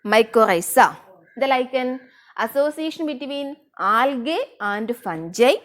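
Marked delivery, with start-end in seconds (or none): 1.4-5.5 slow dictation. Shown as a demonstration. Teacher dictating a definition.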